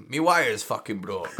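a lightly done, bad Scottish accent; mock Scottish accent, barely put on. Quoting the fat bastard's wire scene in a mild, bad Scottish accent. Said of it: "that's a really bad Scottish accent".

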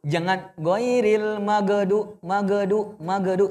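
"magdu" with bounced ghain; wrong pronunciation. Shown as a demonstration. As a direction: demo the error: "ghairil magdu".

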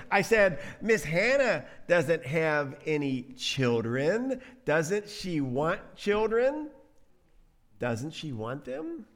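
put-on slow, deliberate child voice; little child. Little one asking mommy about Hannah, slow child voice. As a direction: spell it out like a puzzled kid. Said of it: "says the little one".

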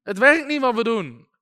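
imitating disciples starting to panic; mock panic. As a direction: act out a touch of bewildered panic. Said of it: "een soort paniek van".

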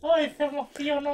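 gleeful loud tease; teasing delight. Real, not acted. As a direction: crow over catching her moved. Teasing her teary eyes.

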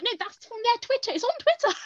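high, insistent yelling; insistent shout. Retold or imitated. Arguing with mum that it's on Twitter, high insistent shout. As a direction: insist over their doubt, shouting. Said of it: "kind of quite loud shouting".

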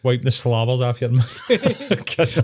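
slow, laughing through the words. Real, not acted. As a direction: drag it out while cracking up. Joking crude image, laughing.

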